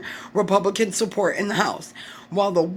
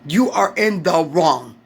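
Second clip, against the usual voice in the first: louder, slow, lower verdict; slow firm accusation; 3 semitones lower, 4 dB louder, slower than usual. Real, not acted. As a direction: spell out the blame slowly. Angry rant at politicians.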